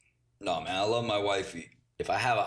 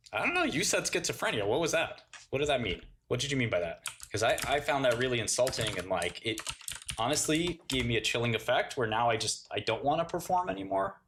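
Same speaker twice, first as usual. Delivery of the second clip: mock offended; 2 semitones higher than usual. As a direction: play the wounded artist, whining.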